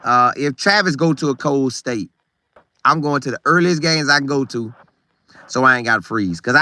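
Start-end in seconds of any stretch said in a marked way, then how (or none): none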